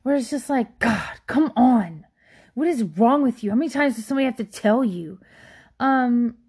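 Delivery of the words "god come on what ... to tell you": exasperated, bossy scolding; condescending manager. Retold or imitated. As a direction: talk down like a smug boss. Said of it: "the attitude and tone".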